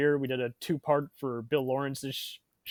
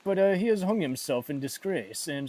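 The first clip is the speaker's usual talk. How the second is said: higher, put-on Spanish accent; hammy Spanish-accented celebrity; Antonio Banderas impression; 4 semitones higher, 5 dB louder than usual. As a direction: play a Spanish film star making his case. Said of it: "that Antonio Banderas impression".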